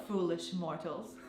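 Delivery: lightly voiced spooky ride host; spooky ghost host. Quoting the Haunted Mansion host.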